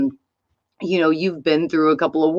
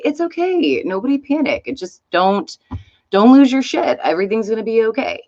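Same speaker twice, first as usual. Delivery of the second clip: higher, lightly voiced soothing leader; calm the crowd, half-mocking; mock reassurance; 4 semitones higher than usual. Trump at the podium calming the country, lightly mock-soothing. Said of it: "he's gonna come up there and say".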